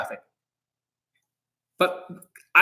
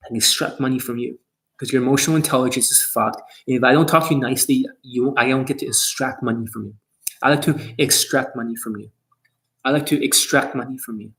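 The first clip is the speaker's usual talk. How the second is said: mock teenager coach; 4 semitones lower than usual. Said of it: "I'm talking like a fucking teenager".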